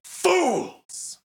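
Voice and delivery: high, drawn-out theatrical cry; villainous cry. Acted. Darkness answering the hero's refusal, hammy high cry.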